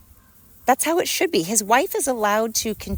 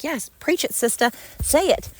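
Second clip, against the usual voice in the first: higher mock cheer from a fan; imitating a cheering fan; 7 semitones higher than usual. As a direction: play the guy egging her on. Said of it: "He's like".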